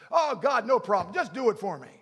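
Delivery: flippant prayer. Retold or imitated. Mock casual prayer.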